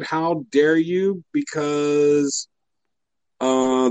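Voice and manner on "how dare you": slow quote. Retold or imitated. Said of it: "Mike Pence said".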